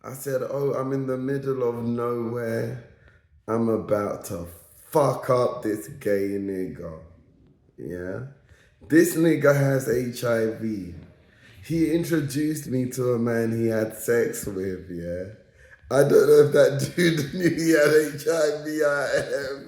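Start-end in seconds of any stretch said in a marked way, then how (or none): 0.4-7.0 low, contained retold anger; pissed. Telling how he got pissed in the middle of nowhere, low simmering anger. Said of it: "I start getting pissed". 16.0-19.7 laughing. Real, not acted. Laughs while telling it.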